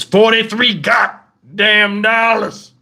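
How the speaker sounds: a hint of a grumpy granddad, dragged out slowly; grumbling granddad. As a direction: slowly chew out each word like an annoyed old man. Granddad grumbling about food cost.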